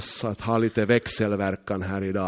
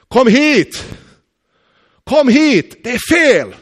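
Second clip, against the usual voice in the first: much higher, loud urgent shout; shouting chess master; 13 semitones higher, 8 dB louder, slower than usual. Retold or imitated. Chess master shouting to the guards, high urgent shout. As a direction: cry out to the museum staff. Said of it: "plötsligt så började han ropa".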